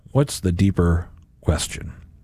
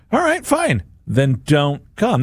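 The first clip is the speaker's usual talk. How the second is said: curt, much higher exasperated brush-off; a huffy, high-pitched fine; fed-up dismissal; 6 semitones higher, slower than usual. Retold or imitated. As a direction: shrug them off, then don't come. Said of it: "That would have been my reaction".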